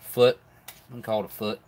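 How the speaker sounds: talking through a mouthful of food; words around a bite; mouth full. Real, not acted. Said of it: "Talking with my mouth full".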